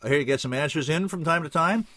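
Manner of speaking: half a question, feeling it out; half asking. A narrator's reading. Kid sounds out the bartender, half asking. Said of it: "he half asked".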